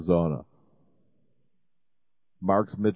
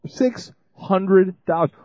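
slow, loud and much higher, leaning on hundred; emphatic announcement; 12 semitones higher, 7 dB louder, slower than usual. Real, not acted. Radio host announcing the pledge goal to listeners, slow and emphatic. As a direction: spell out the goal like a big reveal.

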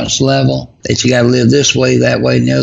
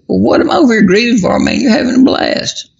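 high-pitched, quick mock exasperation; mock ticked off; 12 semitones higher than usual. Widower imagining what he'd tell his late wife, mock ticked off. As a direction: pitch it way up, as if playfully indignant. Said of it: "I'd probably be ticked off".

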